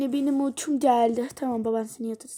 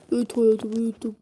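louder, voiced answer; spoken out loud; 3 semitones lower, 4 dB louder than usual. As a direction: say it out plainly and louder. Same answer said aloud. (aynı cevabı bu kez yüksek sesle söyleyen baba)

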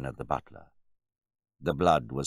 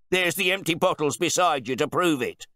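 loud, high-pitched outrage; blustering, affronted wine bore; indignant host; 14 semitones higher, 7 dB louder than usual. A narrator's reading. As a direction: challenge the butler in disbelief. Host challenged before guests.

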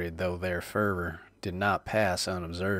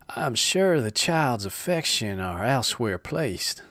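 pleading; 4 semitones higher, 4 dB louder than usual. Acted. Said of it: "pleaded the distracted Stubbs".

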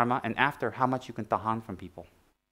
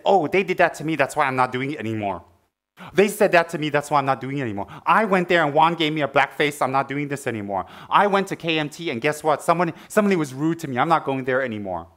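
mock complaining; 2 semitones higher, 4 dB louder than usual. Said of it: "you don't say".

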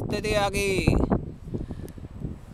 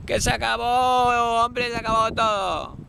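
mock priest blessing; 3 semitones higher than usual. Mock blessing of pure atheism.

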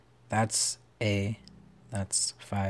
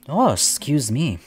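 talking through a yawn; 4 semitones higher, 7 dB louder than usual. Real, not acted. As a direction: stretch it out in a yawn. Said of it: "Big yawn".

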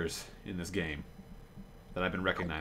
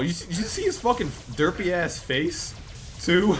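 laughing; 8 semitones higher, 5 dB louder than usual. Real, not acted. Laughing at derpy model.

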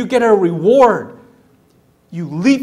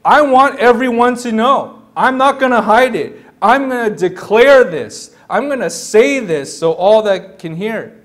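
mildly raised declaring voice; proclaiming. Acted. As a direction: declare it openly for all to hear. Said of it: "she's proclaiming".

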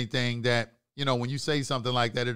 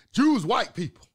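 higher, louder put-on voice of a commenter; mocking quote; 9 semitones higher, 6 dB louder than usual. Mimicking someone who messaged him, mocking. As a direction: parrot the ignorant viewer. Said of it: "I had somebody say".

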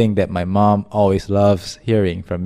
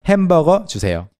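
mimicking child; 7 semitones higher, much faster than usual.

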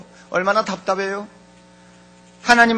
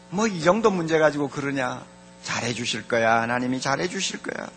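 low, soft inner voice; reassuring self-talk; 6 semitones lower, 7 dB quieter than usual. Acted. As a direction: drop down and quietly reassure yourself. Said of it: "나도 모르게 그런 소리를 하는".

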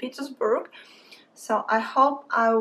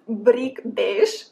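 "brick beige" in a heavy Russian accent, rolled and clipped; strong Russian accent. Shown as a demonstration. Artist naming her marker color in a strong Russian accent. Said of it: "said it now with a very strong Russian accent".

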